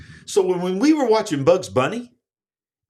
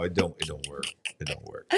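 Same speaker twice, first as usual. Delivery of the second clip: redneck drawl; 11 semitones lower, 11 dB quieter than usual. Pretend. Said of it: "country redneck".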